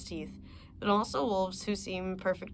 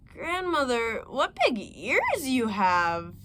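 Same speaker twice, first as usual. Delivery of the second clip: put-on wondering little girl; 3 semitones higher, 4 dB louder, slower than usual. Girl's wondering question.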